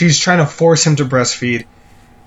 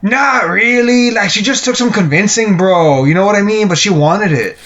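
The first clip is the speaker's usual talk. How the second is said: evasive guy to friend; 4 semitones higher than usual. Acted. Guy justifying himself to his friend, evasive bro voice. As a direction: stretch it out high, wheedling like a guilty bro. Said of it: "And he's like".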